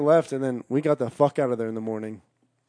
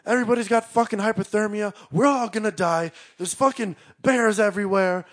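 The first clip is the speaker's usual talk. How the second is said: high-pitched imitation of panic; mock freak-out; 6 semitones higher than usual. Retelling Josh coming up the hill, mock freak-out. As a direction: raise the pitch like someone freaking out. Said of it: "he's just freaking the fuck out".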